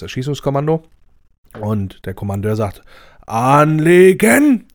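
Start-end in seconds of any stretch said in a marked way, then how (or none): 3.3-4.7 drawn-out barked command, higher and louder; commander's order. Acted. Commander barks at the firing squad, drawn-out shout.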